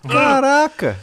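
high startled exclamation; surprised. Real, not acted. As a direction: blurt it out in shock. Reacting to colleague's sour stomach.

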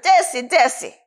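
imitated African accent, lightly done; gentle rebuke in a lightly imitated African accent; thick African accent. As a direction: quote her in an African accent. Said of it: "in your thick African accent".

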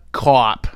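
cop said as "cawp", open Boston vowel. Shown as a demonstration. Joking with viewers about the spelling, Boston "cawp". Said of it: "spelled C A W P".

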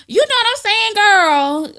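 put-on high, loud sassy hood girl. Hood girl trying to relate to you, high and sassy. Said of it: "Or the hood girl".

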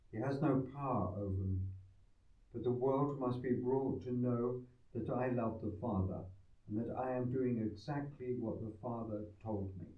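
solemn scripture reading; formal reading. Acted. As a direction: read like a solemn lector. Gospel proclaimed at mass.

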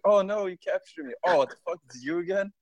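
high, loud hammed-up glee; mock delighted captive. Recaptured marine greeting the Night Lord, high loud mock glee. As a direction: squeal it like a happy reunion.

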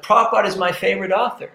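rattled off quickly, all in one breath; quick, eager imitation of the man; blurted out fast. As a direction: fire the line out fast like a proud fan. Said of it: "It's like he came out, you know, like that".

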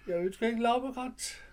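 high, slow strained cry of protest; strained high shout. Retold or imitated. The voiceless officer refusing the laurel wreath, high strained shout.

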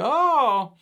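high, put-on voice for the tow guy; tow truck driver.

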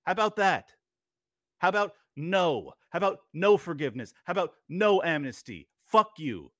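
angry, emphatic rebuttal; real anger. Real, not acted. Host refusing amnesty to policy makers, angry. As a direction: fire off each refusal with force. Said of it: "I am so mad".

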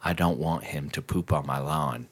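put-on low, quiet old-lady voice; quoting the old neighbor. The neighbor telling him off, low soft mimicry. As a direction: mimic her mumbling demand. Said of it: "And she's just like".

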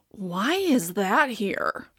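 half-disgusted bewilderment; understated mock confusion; puzzled visitor.

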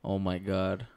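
full-voiced, no whisper; clearly projected. Shown as a demonstration. Second mic test for uncle, clearly projected. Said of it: "I hear you way better now".

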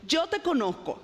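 leve reclamo, algo más agudo; reclamo atrevido a Dios. Retold or imitated. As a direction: discute con Dios con descaro suave. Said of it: "de osada, le digo". (le reclama a Dios con osadía, más agudo)

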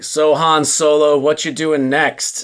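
slow, stilted line reading; bad acting. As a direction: deliver it awkwardly and slowly. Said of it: "Why did you deliver it like that?".

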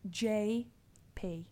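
slow, separated J, then P; careful repetition. Retold or imitated. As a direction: spell out J, pause, P, patiently. Repeats initials after being misheard.

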